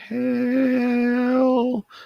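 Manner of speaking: very high, very slow, cracking, halting voice. A speaker making an introduction: voice cracking. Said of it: "my voice cracked".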